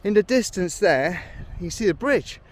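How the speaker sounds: breathless from the climb; puffing between phrases; out of breath. Real, not acted. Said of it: "No wonder I'm a bit out of breath".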